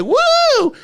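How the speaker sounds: a very high, loud whoop; cheering woo. Retold or imitated. Roommate cheering the comic from the crowd, high loud whoop.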